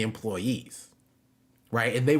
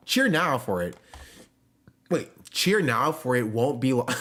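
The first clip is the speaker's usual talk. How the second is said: anime villain; 2 semitones higher than usual. Retold or imitated. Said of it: "talk like an anime villain".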